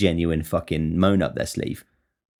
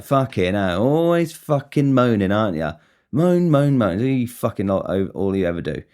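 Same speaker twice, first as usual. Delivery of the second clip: jokey mocking; 2 semitones higher than usual. Ribbing a tired supervisor for always moaning, jokey mockery. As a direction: tease with a swooping, stretched-out moan. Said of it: "a sort of jokey way".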